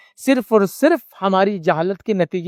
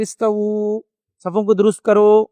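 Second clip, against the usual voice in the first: imam's announcement; much slower than usual. Retold or imitated. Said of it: "اعلان کرتے".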